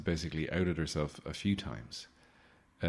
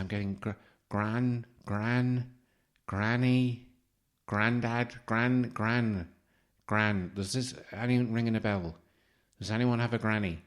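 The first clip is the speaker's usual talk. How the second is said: mock psychic fishing; 3 semitones higher than usual. Mocking psychic fishing for names.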